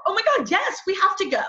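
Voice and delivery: high, thrilled yes to a friend; excited. Acted. Friend agreeing to go to the concert, excited. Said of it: "When you hear that excitement in your voice".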